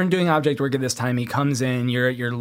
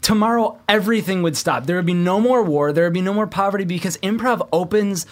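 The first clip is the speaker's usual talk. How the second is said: a lightly raised, fervent proclamation; mock grand speech; 4 semitones higher than usual. Improv fan proclaiming improv will end war, fervently. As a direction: preach improv like it can save the world.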